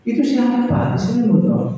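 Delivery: a teacher coaxing the answer out; the voice of God quizzing a husband; probing God voice. Retold or imitated. God questioning him.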